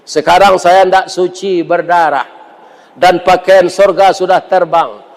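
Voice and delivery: a hint of a weeping wife begging forgiveness; Siti Hawa pleading. Eve tearfully pleading to Adam.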